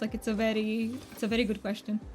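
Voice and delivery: put-on, exaggerated Romanian accent for fun; thick Romanian accent. Streamer doing it just for funsies for the stream, thick mock Romanian accent. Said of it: "I'm gonna be doing a Romanian accent".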